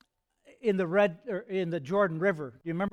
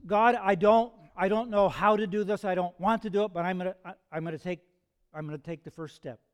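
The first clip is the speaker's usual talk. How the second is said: reluctant resolve; 4 dB louder than usual. Acted. Reluctant believer praying before the first step, reluctant resolve.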